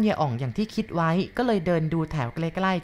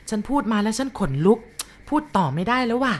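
spooked; 5 semitones higher than usual. Acted.

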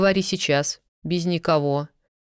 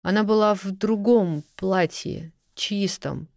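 flustered rambling; 4 semitones higher than usual. Acted. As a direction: tumble out a scared, confused account. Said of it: "сбиваясь".

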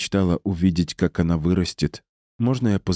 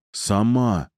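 drawn-out, higher awed confirmation; gasped surprise; 4 semitones higher than usual. A narrator's reading. Polansky marvels at Mother of the River, gasped surprise. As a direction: marvel at who it is. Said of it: "охнул Поланский".

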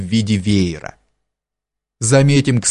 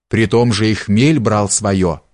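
ordinary delivery

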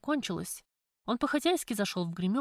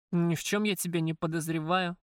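холодно; 3 semitones lower than usual. Acted. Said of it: "холодно ответил Макар".

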